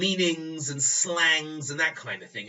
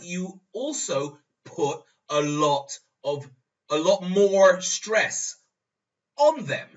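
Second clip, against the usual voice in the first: slow, much louder, climbing far higher on 'on them'; louder slow 'a lot more stress', pitch soaring on 'on them'; emphatic simple version; 5 semitones higher, 8 dB louder, slower than usual. Shown as a demonstration. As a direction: spell it out loud and slow as the plain rewrite. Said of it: "That's not written very, mm, simply".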